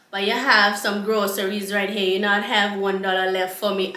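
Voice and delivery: imitated Rastafarian accent; Rastaman accent. Rastaman eyeing the groceries, mock Rastafarian accent. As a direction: lightly put on a Rasta accent. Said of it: "in this goddamn accent".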